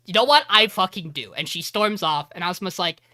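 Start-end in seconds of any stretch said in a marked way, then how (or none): 0.1-1.3 defiant declaration. Retold or imitated. Suzuki storming off to tell Tani, loud and defiant. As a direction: swear it like a challenge.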